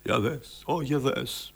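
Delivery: hushed, understated amazement; surprise, fear and pleasure. Shown as a demonstration. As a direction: demonstrate quiet surprise mixed with fear and delight. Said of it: "έκπληξη. Και φόβος και ευχαρίστηση μαζί".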